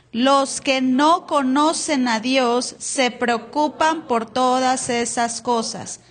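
slow, emphatic verse reading; scripture reading. Acted. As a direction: read it slowly with weight. Reads verse slowly.

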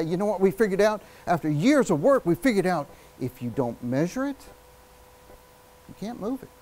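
long pause before the punchline; stop, then land it; pause for emphasis. Shown as a demonstration. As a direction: build up, pause, then deliver the point. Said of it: "pause either before or after it".

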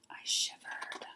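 spooky whispered narration; hushed suspense. A narrator's reading. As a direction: drop to a drawn-out, shivery whisper. Suspenseful ending of monster story.

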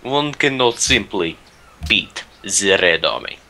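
put-on slow, hammy Russian accent; a clumsy stab at a Russian accent; bad Russian accent. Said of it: "the worst Russian accent I've ever tried".

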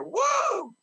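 high excited whoop. Real, not acted. Preacher whooping with joy at the revelation. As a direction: let out a joyful whoop.

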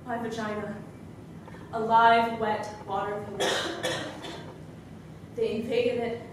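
subdued, desolate recital, fading to very soft; quiet, hollow aftermath of an outburst; survivor's monologue. Acted. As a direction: let the energy drain away, pausing between phrases.

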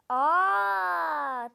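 loud startled aah; surprised gasp. Real, not acted. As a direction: blurt it out in surprise. Sudden loud surprised exclamation.

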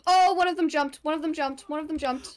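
startled and rattled, repeating it; high, frightened yelp; scared horror game streamer. Real, not acted. Enemy jumps out in game.

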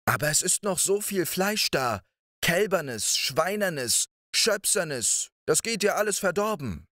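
high, quick pleading woman; the wife hurrying to talk him out of it; wife's voice. Acted. (hohe, eilige Frauenstimme)

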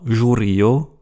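"jurio" slowly, starting zhu; "jurio" drawn out as zhu-ri-o; soft French J. Shown as a demonstration. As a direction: open "jurio" like French jour.

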